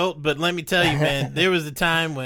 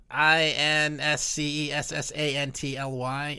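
spelling it out; 3 semitones lower, 5 dB quieter than usual. Shown as a demonstration. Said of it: "The word is incessantly".

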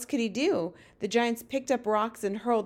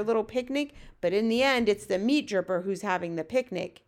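lightly voiced giant, livelier than the narration; BFG storyteller giant; 2 semitones higher than usual. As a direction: lightly play a giant explaining giants' habits.

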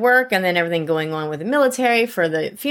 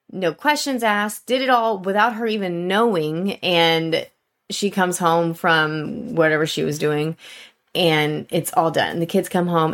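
normal talking voice

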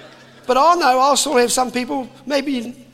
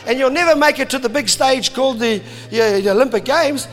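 mocking mates; 3 semitones higher, 4 dB louder than usual. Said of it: "they laughed and said".

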